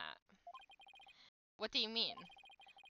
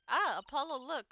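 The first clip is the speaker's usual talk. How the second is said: alarmed call; 6 semitones higher, 7 dB louder than usual. Acted. Alarm at reporters outside.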